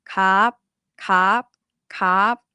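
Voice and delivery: "Cup" lengthened and lifted before the closing stop; high tone, long vowel. Shown as a demonstration. Teacher gives students the feel, long high-tone vowel. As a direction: draw out the vowel in "cup", pitch up. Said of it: "high tone with a long vowel".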